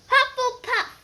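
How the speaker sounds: high, loud shout; sorting hat shouting the house. Acted. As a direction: bellow the house name for all to hear. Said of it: "shouted the hat again".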